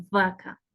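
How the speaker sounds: "vaca" with a buzzed v; labiodental V. Shown as a demonstration. Teacher showing V of vaca vibrates, buzzed v. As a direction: teeth on lip to start "vaca". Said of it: "Es labidental".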